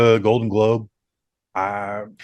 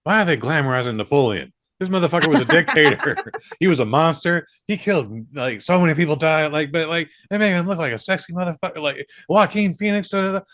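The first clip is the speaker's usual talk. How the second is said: higher, rising ranting mock outrage; mock outraged poster; 5 semitones higher than usual. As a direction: rant like an indignant commenter. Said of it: "everything I saw was just like".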